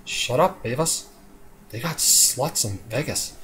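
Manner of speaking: slow, dopey cartoon teen; a hint of a lazy stoner drawl. Teen telling Beavis to shut up, slow stoner voice. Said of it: "really high-end stoner voice".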